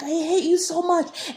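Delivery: retold scream. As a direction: scream it at the ghost in the dream. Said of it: "And then I'm screaming".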